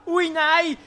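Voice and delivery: mock dismay. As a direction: overplay the shock, sarcastically. Son reacts to village ban.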